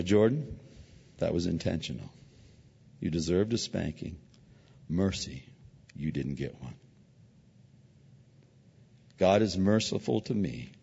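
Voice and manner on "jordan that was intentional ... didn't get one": soft and low, gentle; tender fatherly explanation. Retold or imitated. Father teaching his son about mercy, softly.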